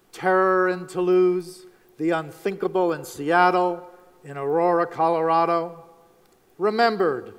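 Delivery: honor the victims with measured gravity; grave headline delivery; solemn remembrance. Real, not acted. Commemorates victims of the year's tragedies.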